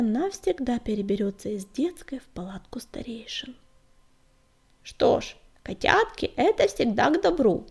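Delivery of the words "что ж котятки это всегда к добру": lightly voiced old cat, rumbling; old she-cat rumbling. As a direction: purr it like a kindly old granny. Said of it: "заурчала старая кривуля".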